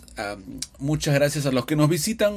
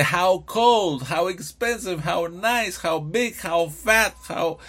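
emphatic exclamation; 4 semitones higher, slower than usual. Shown as a demonstration.

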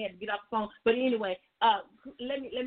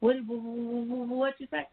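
excited stammer; 4 semitones higher than usual. Retold or imitated. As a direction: stutter with excitement, can't get it out. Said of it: "I get excited".

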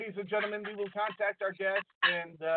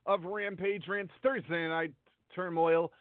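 underwater; 2 semitones lower than usual. Real, not acted. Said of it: "you sound like you're underwater".

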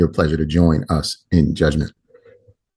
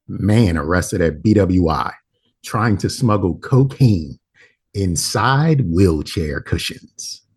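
slow headline read; slower than usual. Acted. Reading a headline slowly.

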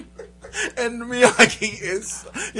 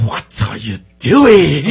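put-on horrible Japanese accent; 5 semitones lower, 4 dB louder, slower than usual. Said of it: "this horrible Japanese accent".

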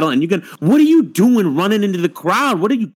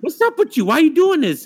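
high mocking whine; mocking imitation; 12 semitones higher than usual. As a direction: mimic him in a high whiny voice. Mocking the rapper's reaction.

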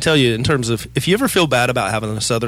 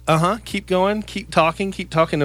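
mock swooning woman; 7 semitones higher than usual. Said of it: "they're like".

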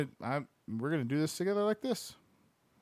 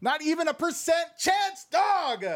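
much higher and louder yell; incredulous shout; 12 semitones higher, 3 dB louder than usual. Real, not acted. Streamer yelling the odds at chat, full shout.

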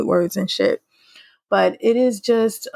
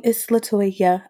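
slowly spelling out the name; spoken slowly, not sung; slow spoken answer; slower than usual. Pretend. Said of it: "I give you all a little remix".

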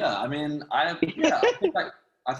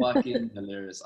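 excited; 11 semitones higher than usual. Real, not acted. Praising Courtney's performance.

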